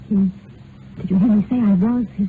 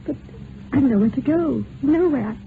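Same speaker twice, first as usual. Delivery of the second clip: despairing; 5 semitones higher than usual. Acted. Abandoned woman despairing.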